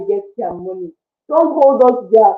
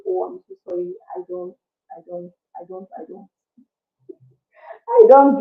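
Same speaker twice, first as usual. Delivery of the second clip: calm polite refusal; 3 semitones lower than usual. Shown as a demonstration. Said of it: "you should say it calmly".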